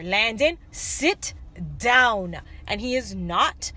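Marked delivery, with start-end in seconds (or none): 0.0-2.4 firmer retold command, pausing before the last word; mildly raised parent voice, words set apart; acting out a mother starting to lose patience; getting louder. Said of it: "I'm starting to get la-, louder".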